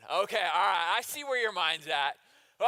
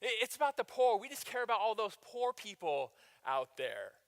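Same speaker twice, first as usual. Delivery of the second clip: fake piety; 3 semitones higher than usual. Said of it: "They go".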